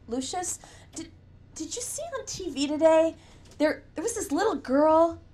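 each word a labored effort, broken starts; halting speech. Acted. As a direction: push out every syllable like a stone. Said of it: "The words were hard for him. Not quite a stutter".

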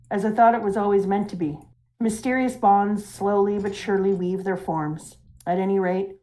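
measured, lightly acted reflective reading; slightly slowed toward the close; story character's monologue. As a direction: read it as a musing old mentor, understated. Reads the old mentor's monologue.

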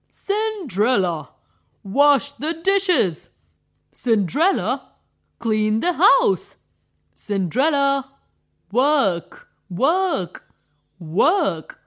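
loud barked orders to the stepdaughter; bossy stepmother. Acted. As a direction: order her around like a harsh stepmother.

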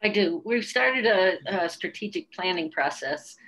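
talking into her hand; muffled behind a hand; hand over mouth. Real, not acted. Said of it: "Sorry about talking into my hand".

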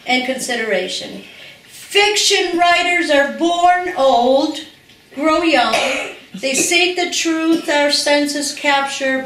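measured, deliberate reading of a written passage; reading a friend's prose aloud to the room, earnest and formal. Acted. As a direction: read it like a tribute at a podium, lingering on key phrases. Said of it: "I want to read something that he has written".

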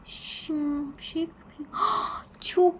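frightened. Real, not acted. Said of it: "çok korkmuştum gerçekten".

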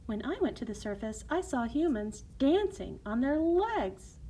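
lightly voiced sister sharing a wonder, rising at the end; excited mermaid sister. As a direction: tell of a marvel with lively lifts.

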